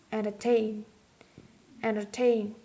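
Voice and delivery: "entertain" with the last syllable, TAIN, stressed; stress on final syllable. Shown as a demonstration. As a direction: hit TAIN at the end of "entertain". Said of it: "If the final syllable contains".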